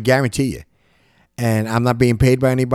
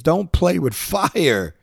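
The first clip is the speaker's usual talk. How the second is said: slow, firm parental warning; slow it down like warning a child; parent warning kids; 5 semitones higher, much slower than usual. Retold or imitated. A parent slowly warning a child not to play with fire. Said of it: "you tell your kids".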